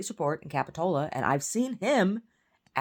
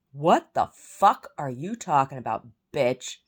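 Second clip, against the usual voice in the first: loud, slow, punched-out retort; indignant swearing, forcefully spaced out; retold angry comeback; 7 dB louder, slower than usual. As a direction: hit each word hard, as if confronting her. Retelling own angry comeback in quarrel.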